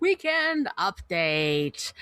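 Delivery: very slow, drawn-out announcement; slow title read; announcer title. Acted. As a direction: announce it like a show segment.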